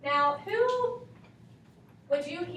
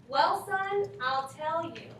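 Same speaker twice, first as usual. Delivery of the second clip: a hint of a folksy parent, a little higher and louder on son; lightly voiced old mother; 4 semitones higher, 4 dB louder, much slower than usual. Shown as a demonstration. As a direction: say it like an older relative giving advice. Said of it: "I'm gonna underline".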